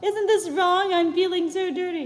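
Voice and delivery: high-pitched character voice; Lala's girlish voice. A narrator's reading. Lala asks the professor, in a high character voice. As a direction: raise the pitch for a little Teletubby.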